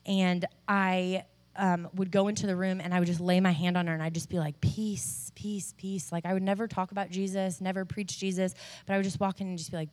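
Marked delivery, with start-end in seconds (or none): 4.6-6.1 softly murmured calming words; hushed, gentle reassurance to a patient; soothing. Retold or imitated. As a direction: soothe gently, letting it fade softer. Retells soothing an anxious patient.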